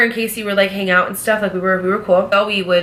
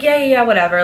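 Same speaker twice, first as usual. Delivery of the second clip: higher-pitched mock agreement; imitated brush-off; 4 semitones higher, 3 dB louder, faster than usual. Front office hearing her concerns, mock dismissive. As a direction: imitate someone waving a complaint away. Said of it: "blew it off".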